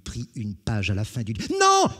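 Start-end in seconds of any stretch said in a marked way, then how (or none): 1.6-1.9 very high, loud anguished howl. Acted. Jean watching his book torn, anguished howl. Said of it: "Hurla Jean des Bruyères".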